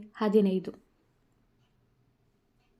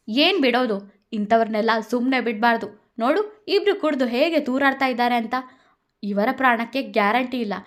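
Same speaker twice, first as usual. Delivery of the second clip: louder heated argument; Radha arguing; 2 semitones higher, 4 dB louder than usual. Acted. Radha argues to punish the drunk couple, heated. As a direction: refuse to let it go.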